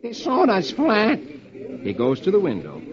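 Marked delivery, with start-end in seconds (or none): 0.0-1.2 disgusted. Acted. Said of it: "Beetle says disgustedly".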